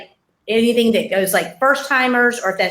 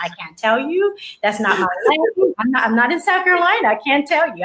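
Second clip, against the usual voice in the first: a higher, brisk imitation of her friend refusing; mock firm refusal; 4 semitones higher than usual. Friend Iris refusing to help with South Carolina, lightly imitated high refusal. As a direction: lightly play the friend saying no, fast and bright.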